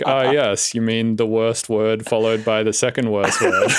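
telling his Belgian friend what the phrase means, laughing; laughing reply. Retold or imitated. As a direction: answer while cracking up. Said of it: "I was like".

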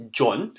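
John stretched slowly, Japanese style; katakana John. Shown as a demonstration. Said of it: "my name".

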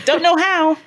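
high, loud, fast certainty; confident excitement. Retold or imitated. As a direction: sure of herself. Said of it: "And I'm like".

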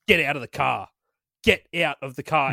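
lightly acted low, firm order; measured mock command from a father-in-law; retold angry father-in-law. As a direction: order them out, retold with mild menace. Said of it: "He's just going to Ness".

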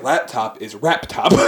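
lightly imitating the Japanese R for L in "Laptop"; a hint of a mock accent, saying "Laptop" as "rap top". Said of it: "everything in Japanese that's an L is legitimately replaced with an R".

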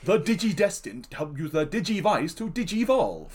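bad voice acting, lightly imitated; slightly stilted hero voice that cannot act; Leomon. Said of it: "And Leomon spoke like this".

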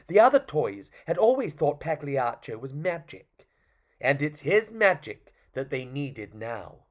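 lively, well-paced story narration; storytelling to children. Acted. Storyteller to an audience about a puppet, lively narration. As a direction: tell it like a tale for children.

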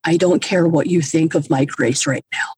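deadpan retort. Retold or imitated. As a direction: answer the sponsor with no cheer at all. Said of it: "look her dead in the face".

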